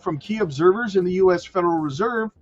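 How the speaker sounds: measured, emphatic headline-and-story read; news read. Real, not acted. Streamer reading Fed rate news to viewers, newsreader delivery. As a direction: read the article out like a newscaster.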